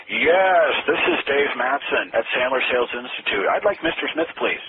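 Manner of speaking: loud formal cold-call opener, pitch jumping up on the name; stiff salesperson pitch. Retold or imitated. An old-school salesperson asking the gatekeeper for the boss, loud and formal. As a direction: announce yourself like a textbook telemarketer. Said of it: "salespeople used to say".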